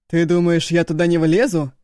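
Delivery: furious brother daring him from the ground; angry threat. A narrator's reading. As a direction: threaten him loudly from below. Agun threatening to climb tree.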